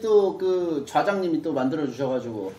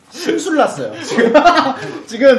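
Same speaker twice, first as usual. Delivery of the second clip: laughing; 6 semitones higher, 5 dB louder than usual. Real, not acted. Teasing a grumpy co-host.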